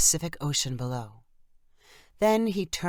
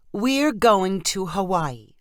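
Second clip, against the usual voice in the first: insistent; 3 semitones higher, 4 dB louder, slower than usual. Acted. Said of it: "Dawn insisted".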